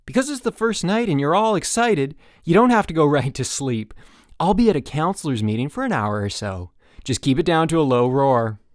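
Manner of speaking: put-on rally the boys warmly; counselor's bedtime talk; peppy counselor. A narrator's reading. Counselor addresses cabin.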